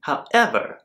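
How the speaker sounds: jaw propped on palm; lounging relaxed delivery; head resting on hand. Real, not acted. Seen 0: Head leans on hand cupping cheek and jaw throughout the words.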